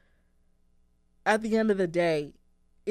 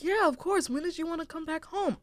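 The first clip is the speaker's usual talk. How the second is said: a lightly voiced mom, pitched higher; mom's gentle reply; 11 semitones higher than usual. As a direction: imitate mom kindly, a touch higher. Mom answers on the phone.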